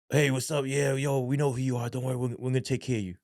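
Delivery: easygoing, gentle mock reassurance; reassuring officer. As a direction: put the newcomer at ease, lightly voiced. Retells reassuring greeting from officer.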